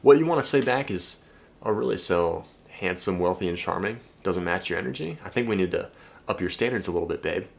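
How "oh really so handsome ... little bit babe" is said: softer, unhurried playful put-down; cool teasing comeback. Shown as a demonstration. Guy answering a girl who says energy doesn't match, cool teasing. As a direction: deliver it coolly, drop the volume.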